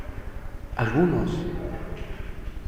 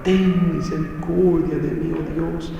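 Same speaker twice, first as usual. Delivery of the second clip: pleading cry; 5 dB quieter than usual. Retold or imitated. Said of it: "empezó a gritar y a llorar".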